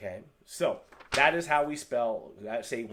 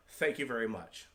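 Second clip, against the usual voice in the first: lower, measured "Thank you very much"; formal thanks; 3 semitones lower than usual. Shown as a demonstration. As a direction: say it respectfully. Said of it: "If I was to translate it".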